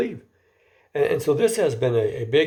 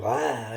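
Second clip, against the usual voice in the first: leering ah; 5 dB quieter than usual. Shown as a demonstration. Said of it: "like that".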